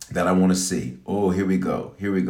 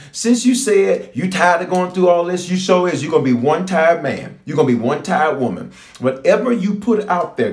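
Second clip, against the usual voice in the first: God voiced; 4 semitones higher than usual. Preacher voices God, rising.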